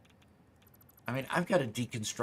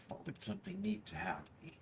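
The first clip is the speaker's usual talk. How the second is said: high musing voice; 11 semitones higher, 10 dB quieter, faster than usual. Acted. Musing aloud in a put-on voice.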